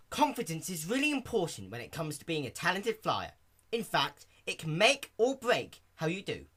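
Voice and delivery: lightly voiced sporty pony; Rainbow Dash voice. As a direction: Dash coaching her friend on confidence. Dash gives advice.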